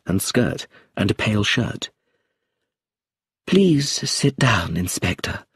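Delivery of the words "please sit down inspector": slow, calm, composed welcome; calm and quiet. A narrator's reading. Actress greeting the inspector, calm and quiet. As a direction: settle into a calm, even tone. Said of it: "she said in a calm, quiet voice".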